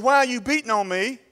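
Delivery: high, hurt complaining voice of the donkey; donkey's voice. Acted. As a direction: plead like a wronged she-donkey, pitched high. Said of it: "She said".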